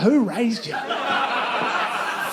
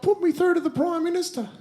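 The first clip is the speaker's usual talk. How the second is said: excited clerk; 9 semitones higher than usual. Retold or imitated. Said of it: "and he's like".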